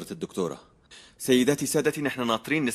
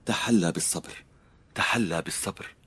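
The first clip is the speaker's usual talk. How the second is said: calm advice; 2 semitones lower, 3 dB quieter than usual. Shown as a demonstration. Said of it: "في جملة معروفة من زمان بتقول".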